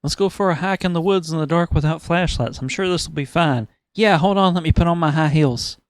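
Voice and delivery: high, loud mock-breezy voice; clueless horror victim. Victim heading into dark woods, mock breezy. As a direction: parody a blithely doomed movie victim.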